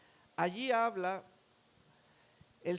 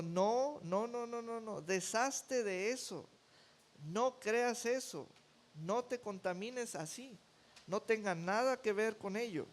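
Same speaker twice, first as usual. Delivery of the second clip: reassuring; 3 semitones higher than usual. Acted. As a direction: soothe someone who feels forgotten. Jesus voiced reassuring the forgotten.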